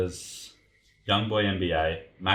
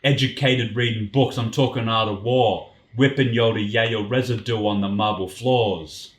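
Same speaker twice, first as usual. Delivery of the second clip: rapper's cadence; 4 dB louder than usual. Shown as a demonstration. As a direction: rap lyrics spoken in cadence. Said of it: "I'll do it in his cadence".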